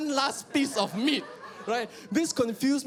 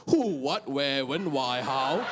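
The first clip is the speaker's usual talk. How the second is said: teacher calling names; 8 semitones lower, slower than usual. Acted. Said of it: "teacher giving homework".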